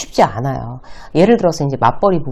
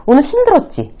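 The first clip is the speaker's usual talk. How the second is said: 힘들었지 raised high, then falling at the end; demonstrating how not to ask 힘들었지; leading question; 8 semitones higher than usual. Shown as a demonstration. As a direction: ask 힘들었지 as if already sure of the answer. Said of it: "이렇게 또 묻는 것도 아니에요".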